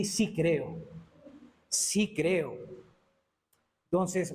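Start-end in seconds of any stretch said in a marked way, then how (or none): 0.0-2.6 más grave, afirmación serena; confesión sincera. Shown as a demonstration. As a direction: dilo con convicción tranquila. Modela una confesión de fe. (confesión de fe serena)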